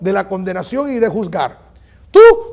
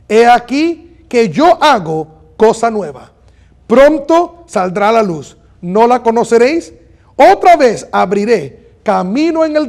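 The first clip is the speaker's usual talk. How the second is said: slow, emphatic Bible reading; solemn scripture reading; 3 dB louder than usual. Real, not acted. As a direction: proclaim the verse in weighty phrases. Reads scripture aloud. (lectura bíblica solemne y enfática)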